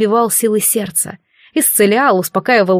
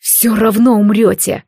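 hoarse grin. Acted. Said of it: "прохрипел Алистар и ухмыльнулся".

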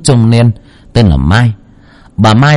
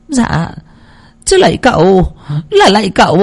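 mumbled prayer; 11 semitones higher than usual. Acted. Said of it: "vừa lẩm bẩm".

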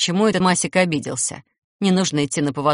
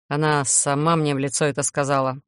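hissing; 4 semitones lower than usual. Acted. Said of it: "гневно прошипел вампир".

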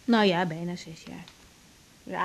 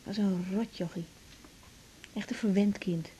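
whispered scorn; 3 semitones lower, 8 dB quieter than usual. Acted. Mocking her ex to lover.

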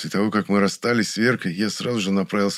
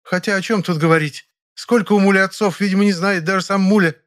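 raised, scornful female voice, louder; a woman's contemptuous parting shot; 12 semitones higher, 6 dB louder than usual. A narrator's reading. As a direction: sneer it down at her. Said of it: "С этой уничижительной фразой".

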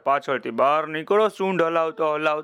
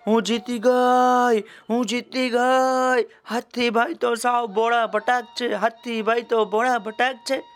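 high, gleeful little ant crowing; storyteller's high, singsong boasting; acted victory yell; 6 semitones higher than usual. A narrator's reading. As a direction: stretch out a high-pitched triumphant call. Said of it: "કીડીબેને હાથીના માથા પરથી જઈને બૂમ પાડી".

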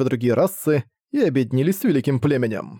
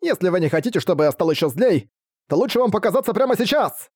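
rising threat, pitched up high; threatening shout; 5 semitones higher than usual. Acted. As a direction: yell a warning at the bushes. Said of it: "Тиё снова прокричал".

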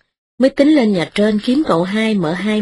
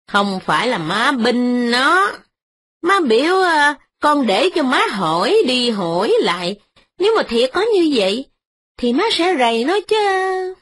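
put-on higher older woman, pleading her case; lightly voiced mother-in-law, pitched up; old mistress explaining; 6 semitones higher than usual. Mother-in-law explains herself to her son's wife, higher.

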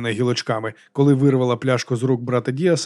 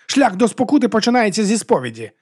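high, declamatory voice; raised-pitch monk's proclamation; exclaimed; 9 semitones higher, 3 dB louder than usual. A narrator's reading. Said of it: "вигукнув брат Діас".

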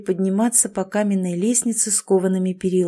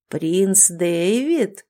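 mocking ghost; much slower than usual. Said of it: "злобно хохотнул призрак".

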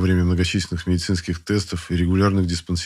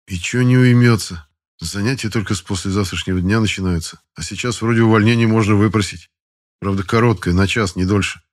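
grumbled complaint, a bit louder; grumbling; 4 dB louder than usual. Acted. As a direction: grumble about the officer. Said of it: "произнёс недовольно". (недовольное ворчание)

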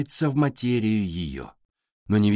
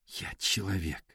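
softer, lower, barely voiced; soft broken murmur; 3 semitones lower, 10 dB quieter than usual. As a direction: say it softly, almost to herself. Alisa crying at mirror.

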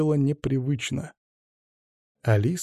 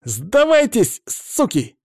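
kid playing soldier; 10 semitones higher, 4 dB louder, much slower than usual. A narrator's reading. Boy ambushes adults with gun.

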